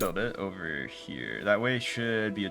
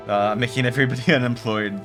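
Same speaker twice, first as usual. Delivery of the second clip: laughing; 3 semitones higher, 8 dB louder than usual. Real, not acted. Laughing at closing the mines.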